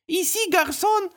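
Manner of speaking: put-on high, slow chorus of small children. Twins repeat the French phrase together, high and slow. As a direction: chant it together like toddlers. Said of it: "произнесли они хором".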